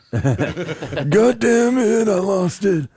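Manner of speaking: high laughing curse; laughing at his own blank. Real, not acted.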